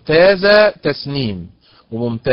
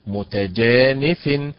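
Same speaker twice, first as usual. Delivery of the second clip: متجانف drawn out slowly with stress on the ja; a model reading of متجانف, very slow; slow stressed demo; much slower than usual. Shown as a demonstration. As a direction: spell out متجانف syllable by syllable. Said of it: "هي ليست ... وإنما".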